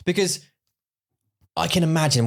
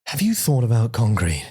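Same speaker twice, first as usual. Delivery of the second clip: Stephen Fry impression. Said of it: "Stephen Fry's in your ear going".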